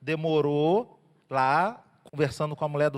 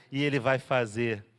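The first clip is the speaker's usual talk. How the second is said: declaring faith; 3 semitones lower, 3 dB louder than usual. Shown as a demonstration. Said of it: "Você faz assim, ó, com o peito".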